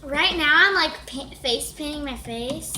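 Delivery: mocking ditzy like-filled voice; mock a ditzy sister, lots of like; girl mocking her sister Summer's valley talk; valley girl impression.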